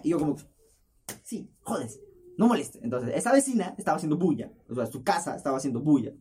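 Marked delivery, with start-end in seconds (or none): 1.2-2.8 annoyed retort. Retold or imitated.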